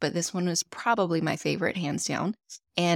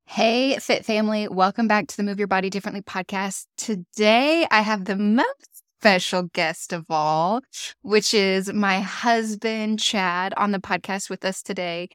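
louder, bright host welcome; excited welcome; 3 semitones higher, 4 dB louder than usual. Acted. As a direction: greet the listeners with energy. Energetic show welcome.

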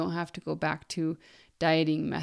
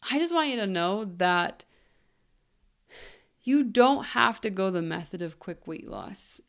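ordinary delivery

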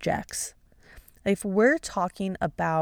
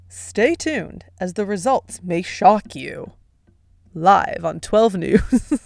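slow, louder TV anchor read; news anchor voice; 4 dB louder, slower than usual. Pretend. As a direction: announce it like the evening news. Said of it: "in my best news anchor voice".

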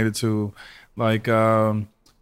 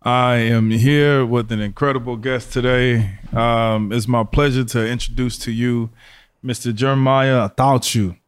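polished TV-anchor delivery; newscaster voice; slower than usual. Acted. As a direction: present it like the evening news. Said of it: "Is that your newscaster voice?".

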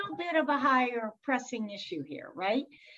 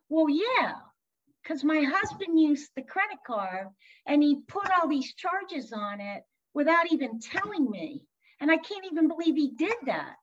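indignant client, pitched up; mock venting, higher-pitched and exasperated; retold anger; 4 semitones higher than usual. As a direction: retell a friend's rising indignation, emphatically. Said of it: "now we've just moved to anger".

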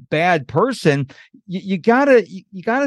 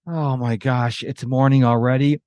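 mock groan; 5 semitones lower than usual. Imitating someone who dreads waking up, a mild mock groan. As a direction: drag it out like dreading the day. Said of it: "Your first thought should not be".

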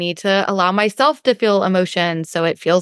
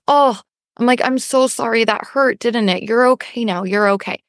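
kindly pet soothing; 2 semitones higher than usual. Retold or imitated. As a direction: soothe a pet that just got hurt. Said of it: "as kindly as we talk to our pets".

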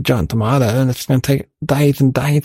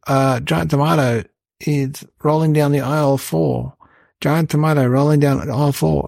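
loudspeaker announcement. Retold or imitated. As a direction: read it out like a bored shop tannoy. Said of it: "And then on the loudspeaker".

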